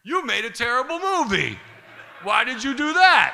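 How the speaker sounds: mock-outraged yell, stretched at the end; mirrored angry retort. Throws the accusation back, mirrored.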